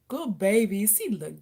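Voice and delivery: normal talking voice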